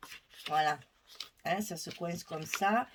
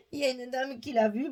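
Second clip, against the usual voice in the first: chuckling through the words; laughing; 3 semitones higher, faster than usual. Real, not acted. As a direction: speak while giggling. Laughing while telling it's sold.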